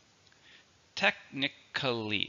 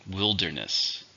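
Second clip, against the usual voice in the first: "Wilderness" stressed on WIL, falling after it; stress on first syllable; 3 semitones lower, slower than usual. Shown as a demonstration. Teacher models the word for learners, stressing WIL in "Wilderness". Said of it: "stress is on the first".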